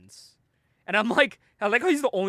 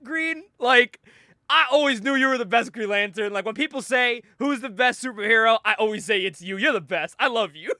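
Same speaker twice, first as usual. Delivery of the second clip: fawning flattery; 4 semitones higher than usual. Retold or imitated. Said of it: "Tom's like".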